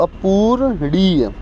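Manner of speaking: अपूरणीय drawn out slowly, each syllable clear; slow careful pronunciation. Shown as a demonstration. Teacher correcting a slip, slowly sounding out अपूरणीय. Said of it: "sorry, अपू".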